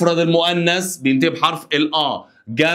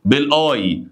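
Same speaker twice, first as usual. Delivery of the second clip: slow dictation; 2 semitones higher, much slower than usual. Shown as a demonstration. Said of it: "teacher dictates rules".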